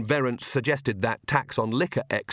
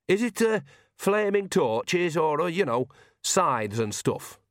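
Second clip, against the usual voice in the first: a lightly higher, slow big son asking mum; dutiful son checking the plan, voiced a bit higher and slow; Jason's voice, slow; 6 semitones higher, slower than usual. Son Jason asking his mother about the mob, slow and a little higher.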